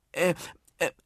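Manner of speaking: put-on high, loud, slow child's call; hesitate, then call it out high and loud. Nuno tells the others Malte knows, calling out. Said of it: "rief Nuno".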